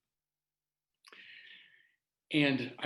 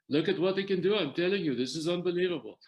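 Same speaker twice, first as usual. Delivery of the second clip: excited retelling; 4 semitones higher than usual. Retold or imitated. Doctor shows him off to staff.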